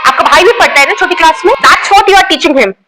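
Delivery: lightly voiced strict schoolteacher, scolding the class; a teacher catching girls with nail paint, scolding; stern teacher scolding. Strict teacher checking student bags.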